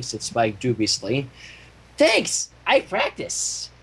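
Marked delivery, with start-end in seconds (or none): 2.0-3.7 high chirp then slow whispered aside; beam, then breathe the secret; high thanks, slow hushed aside; chirpy. Acted. Pinkie's cheerful reply.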